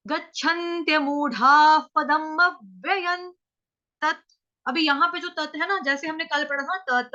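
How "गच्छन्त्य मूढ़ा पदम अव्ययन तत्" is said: slow, measured recitation. Shown as a demonstration. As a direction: intone the whole line slowly. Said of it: "तो कैसे तोड़ेंगे".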